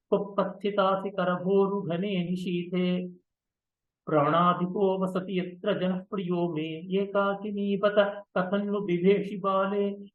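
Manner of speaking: measured Sanskrit verse chant; verse recitation. Acted. Teacher reciting the stranger's verse to the Abhisarika, measured chant. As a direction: let the metre carry each line.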